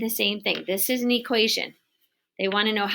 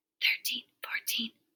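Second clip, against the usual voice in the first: whispered, much quieter; 8 dB quieter than usual. Showing the listener how to count up to the missing numbers, whispered. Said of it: "say these numbers and whisper".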